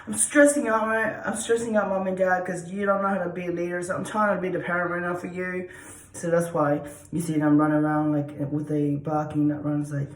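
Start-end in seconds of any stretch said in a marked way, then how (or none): 0.0-5.7 the dog complains to Mom and Dad, lightly stressed. Pretend. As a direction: plead like a stressed-out dog to its owners. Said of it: "they feel like".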